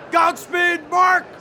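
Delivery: high-pitched shout, turning to delight; exclaiming. Acted. Boss calls farewell to assistant, then spots food, exclaiming. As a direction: call out grandly, then get thrilled by snacks.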